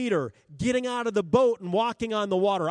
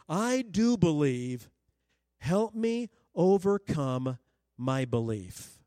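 earnest exclamation; 4 semitones lower, slower than usual. Retold or imitated. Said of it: "he exclaimed".

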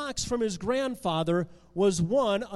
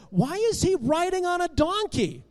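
put-on high, wondering child's question; puzzled child; 8 semitones higher than usual. A narrator's reading. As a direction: ask like a puzzled boy.

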